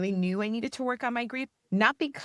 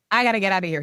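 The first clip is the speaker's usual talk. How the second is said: panicked; 8 dB louder, much faster than usual. Retold or imitated. Panicking in the cold plunge.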